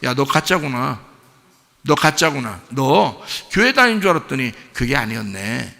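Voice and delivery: low, soft imitation of a let-down companion; disillusioned onlooker. Companion judging a churchgoer a fake, low disillusioned murmur. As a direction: quietly voice someone's dawning disappointment. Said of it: "그 사람이 우리를 볼 때 뭐라고 하겠어요?".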